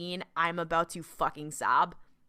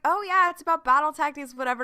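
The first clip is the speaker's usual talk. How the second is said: mocking dismissive quote; 7 semitones higher, 7 dB louder, faster than usual.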